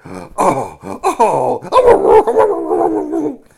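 very high, loud delighted squeals; squealing baby bears. Acted. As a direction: squeal with joy like tiny cubs.

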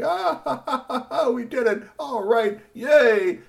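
very high, loud laughing glee; bad guys laugh and cheer, very high; villain cackle. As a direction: cackle like a gloating cartoon crook.

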